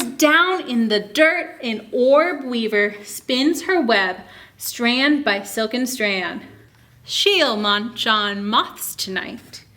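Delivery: slow, lilting picture-book reading; reading to children. Acted. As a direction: read it aloud to a class of little kids. Reads picture book to kids.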